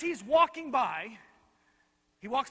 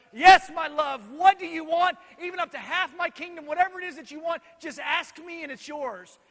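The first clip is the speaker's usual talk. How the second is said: loud, higher-pitched, effusive doting king; lovestruck king; 6 semitones higher, 10 dB louder than usual. Acted. King offering his beloved queen half his kingdom, lovestruck. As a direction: play a besotted king, projecting grandly. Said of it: "The king is so in love".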